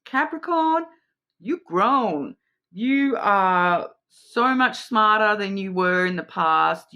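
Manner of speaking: emphatic, encouraging talk to your own reflection; mirror pep talk. Pretend. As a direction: cheer yourself on in the mirror. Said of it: "go and look in the mirror and be like".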